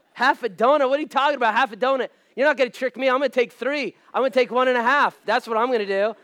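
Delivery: loud, high comic outrage; mock indignation. Pastor retelling his reaction to halved donuts, mock indignant. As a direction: protest loudly as if cheated.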